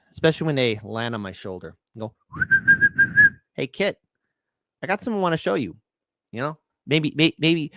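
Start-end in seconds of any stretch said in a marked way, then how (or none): 3.5-5.8 lightly voiced little bird, higher pitch; a higher, playful voice for a talking bird. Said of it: "I love my little birds".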